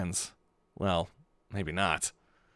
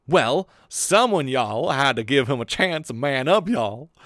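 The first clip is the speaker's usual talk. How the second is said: put-on Texan accent; 4 dB louder, slower than usual. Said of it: "It's not Asuka's voice".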